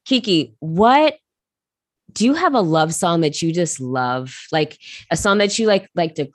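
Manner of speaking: tipsy and giggly. Real, not acted. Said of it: "I'm a little tipsy".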